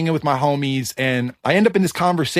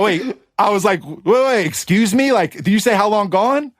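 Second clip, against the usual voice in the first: raised, startled double take; surprised; 5 semitones higher than usual. Retold or imitated. Retelling hearing his song mentioned, surprised. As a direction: stop short, disbelieving.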